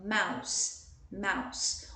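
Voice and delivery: low-pitched "mouse" with a final S; S sound, not Z. Shown as a demonstration. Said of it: "com som de S, não com som de Z". ("mouse" terminando com som de S, não de Z)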